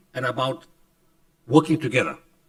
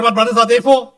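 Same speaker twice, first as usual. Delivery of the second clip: laughing question; 8 semitones higher, 9 dB louder than usual. Retold or imitated. Laughing while retelling the question.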